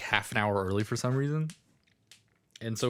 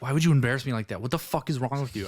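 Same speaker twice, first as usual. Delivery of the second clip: mildly raised mock telling-off; retold scolding; 3 semitones higher, faster than usual. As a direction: imitate a friend's mom scolding you. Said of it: "I got yelled at by my friend's mom".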